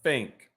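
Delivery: "Think" said as "fink", teeth on lip, no tongue; rabbit face th demo. Shown as a demonstration. Teacher demonstrating the teeth-on-lip trick on "Think". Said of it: "You don't need to use your tongue".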